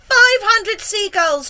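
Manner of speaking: slow, high, loud announcement; shout. A narrator's reading. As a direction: shout the tally, stretching each word. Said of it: "James shouted".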